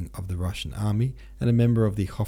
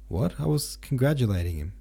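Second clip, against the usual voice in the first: surprised; 5 semitones higher than usual. Acted. Zherkov surprised by outburst.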